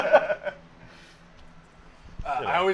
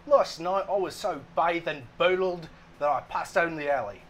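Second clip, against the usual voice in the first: failed Cockney sliding into Australian; Australian-sounding accent. Pretend. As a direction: attempt Cockney, land in Australian. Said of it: "Now that's Australian".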